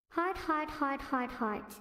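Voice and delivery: lightly voiced cute character chanting heart; clumsy character voice. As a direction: try a character voice and miss. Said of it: "That impression was kind of bad".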